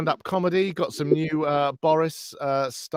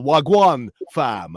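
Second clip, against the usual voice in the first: slow mock roadman shout; hammed-up posh man trying street talk; Boris doing street slang; slower than usual. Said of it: "I'm a man of the people".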